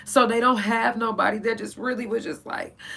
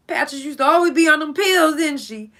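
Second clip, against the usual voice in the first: crying; 6 semitones higher, 10 dB louder than usual. Real, not acted. Remembering Patches, crying through the words. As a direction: voice breaking into tears over a lost friend. Emotional memorial of dead friends.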